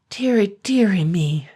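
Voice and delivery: high, rising-then-falling wail of dismay; a frightened old man's lament; trembling dismay. A narrator's reading. Trembling blacksmith caught in the dragon's claw, wailing. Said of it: "trembling more than ever".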